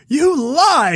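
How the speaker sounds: high, punched mock outburst; mock outraged accusation. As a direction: exclaim it high like an indignant dad. Acted dad rejecting the constables.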